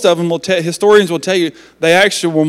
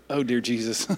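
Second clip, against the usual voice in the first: laughing exasperation; 5 semitones lower, 12 dB quieter than usual. Retold or imitated. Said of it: "And I'm like".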